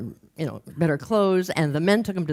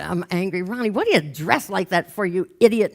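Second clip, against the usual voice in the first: building mock outburst, louder by the end; mock anger; 2 semitones higher, 4 dB louder than usual. Group member finally erupting at Ronnie, mock anger. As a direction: let imitated anger build to the insult. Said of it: "she got mad".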